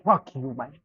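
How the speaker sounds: angry shout. Real, not acted. Trader yelling at the chart that went against him, furious shout. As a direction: bellow it out in rage.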